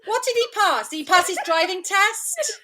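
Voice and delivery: laughing mock confusion. Mock confusion over "passed.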